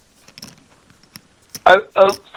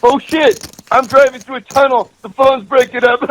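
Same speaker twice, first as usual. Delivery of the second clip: higher, hammed-up panic about a bad line; mock scared excuse; 5 semitones higher than usual. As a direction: fake a dropping call, a little higher and rushed. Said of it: "and he says".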